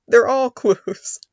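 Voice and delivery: slow, loud laughing punchline. Real, not acted. A learner joking about context clues while laughing.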